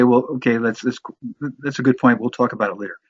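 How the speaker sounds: offhand, putting it off; dismissive brush-off. Shown as a demonstration. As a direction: brush the point aside. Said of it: "so that you don't say".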